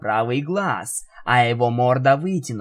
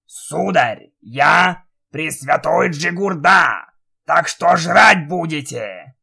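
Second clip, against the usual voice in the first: Jigurda voice; 2 semitones higher, 5 dB louder, slower than usual. Acted. Magic head introduces himself.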